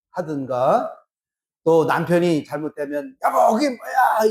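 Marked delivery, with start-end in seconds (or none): 3.2-4.3 a touch of a nagging wife, pitched up; mock whimpering reproach; whiny complaint. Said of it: "이렇게 그러거든". (남편 잘못에 투정 부리는 아내)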